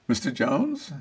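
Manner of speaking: lightly voiced honeyed secretary; a mild syrupy-polite greeting; saccharine sweet caller. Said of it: "dripping sweet with saccharin honey".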